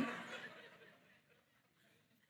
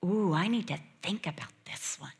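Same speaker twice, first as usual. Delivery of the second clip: hushed pondering. Retold or imitated. Mary pondering the angel's greeting, hushed and wondering. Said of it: "No, this is pondering".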